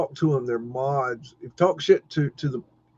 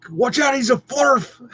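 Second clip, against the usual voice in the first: high, mocking voice of a hater; mocking taunt; 12 semitones higher, 5 dB louder than usual. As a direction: sneer it like a smug troll. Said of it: "they'll be like".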